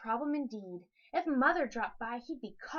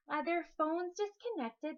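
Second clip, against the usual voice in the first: nervous recital; 4 semitones higher than usual. Acted. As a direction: rattle off "their phone's disconnected" nervously. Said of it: "tried to stay calm".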